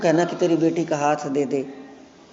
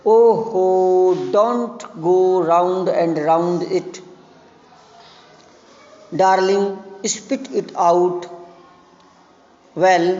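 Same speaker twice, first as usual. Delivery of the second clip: put-on impatient old father; much slower than usual. Chubukov impatiently urges Lomov.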